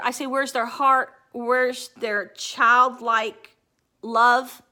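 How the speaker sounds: real upset pushing through the words; near tears. Real, not acted. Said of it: "It makes me cry now".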